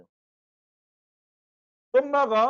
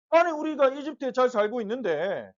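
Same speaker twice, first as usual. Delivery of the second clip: mild mock protest, pitched up; higher-pitched, lightly acted grievance; resentful protest; 4 semitones higher than usual. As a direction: grumble on behalf of a resentful crowd. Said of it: "하나님 원망하기 시작했어요".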